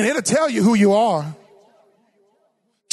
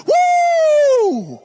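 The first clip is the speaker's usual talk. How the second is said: much higher, louder whoop; joyful whoop; 5 dB louder than usual. Acted. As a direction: let out a high shout of joy. Screaming on the mountaintop.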